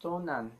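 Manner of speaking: "tonan" with both Ns sounded; final N pronounced. Shown as a demonstration. Teacher showing learners what they needn't say, final N pronounced. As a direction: end "tonan" on a full N. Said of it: "you don't have to say".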